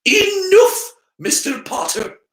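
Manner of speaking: high, loud command; sharp rebuke. Acted. Professor stopping the boy's cheek, sharp and loud. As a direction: snap him to order. McGonagall cuts Harry off.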